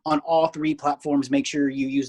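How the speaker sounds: steady, measured promo read; sponsor ad read. Acted. Host pitching team gear sponsors to listeners, ad read. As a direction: pitch it like a podcast sponsor spot.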